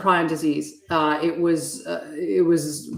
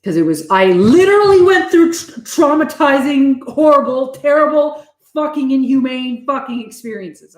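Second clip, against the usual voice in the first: getting upset; 6 semitones higher, 4 dB louder than usual. Real, not acted. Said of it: "I'm gonna get upset".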